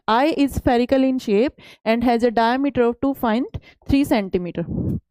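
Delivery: slow, deliberate reading of the English slide. Acted. Teacher reads the textbook slide to students, slow and careful. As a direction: read each word out for the class.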